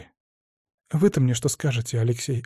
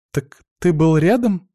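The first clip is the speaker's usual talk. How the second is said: choking with indignation; 3 semitones higher, 4 dB louder, slower than usual. Acted. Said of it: "захлебнулась от возмущения я".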